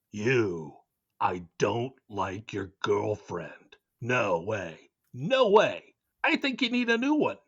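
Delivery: mock-serious theatrical delivery; hammed-up schoolyard taunt; dramatic reading. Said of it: "doing a dramatic reading".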